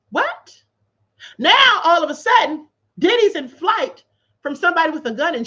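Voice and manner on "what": stunned what. Real, not acted. Reacting to absurd claim.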